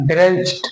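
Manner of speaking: ड्रेंच्ड with a T ending; correct pronunciation. Shown as a demonstration. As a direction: model ड्रेंच्ड closing on T. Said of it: "इस तरीके से हम डी को टा पढ़ेंगे". (ड्रेंच्ड में 'ड' की जगह 'ट')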